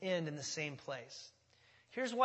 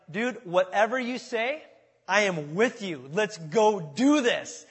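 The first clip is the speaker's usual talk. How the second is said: eager sidekick; 5 dB louder, slower than usual. Acted. Armor bearer eagerly agrees.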